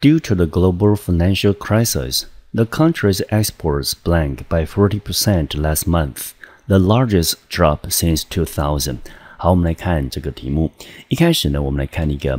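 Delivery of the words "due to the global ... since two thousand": slow, measured English question reading; exam question read-aloud. Acted. Teacher reads question four to students, slow read-aloud.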